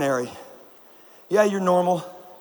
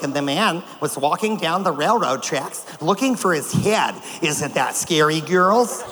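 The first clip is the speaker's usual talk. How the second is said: hushed, spooky storyteller voice; lame ghost story voice; 2 semitones lower, slower than usual. Retold or imitated. Chaperone telling girls a lame ghost story, mock spooky. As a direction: ham up a corny campfire tale. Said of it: "She's like, lame ghost stories".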